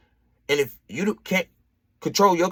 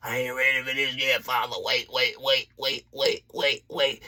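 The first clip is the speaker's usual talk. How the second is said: nervous plea; 3 semitones lower, 5 dB quieter than usual. Retold or imitated. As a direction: plead quietly with God. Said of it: "And I was like".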